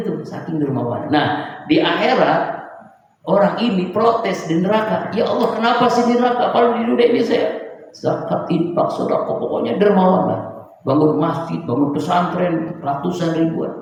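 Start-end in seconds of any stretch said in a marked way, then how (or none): 5.1-13.7 pleading protest. Acted. Generous man protests in hell.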